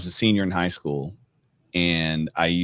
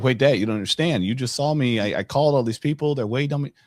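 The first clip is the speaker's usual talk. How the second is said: higher, urgent retold protest; frantic pleading; 6 semitones higher, faster than usual. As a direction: plead with dad, rising frustration. Teen pleading with unbothered dad.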